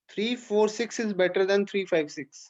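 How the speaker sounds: each number spelled out slowly with weight on four; "Three four six is better" said slowly to make the point stick; slow emphatic comparison. Shown as a demonstration. Teacher stresses the better numbering. (धीरे-धीरे, हर अंक पर ज़ोर देकर)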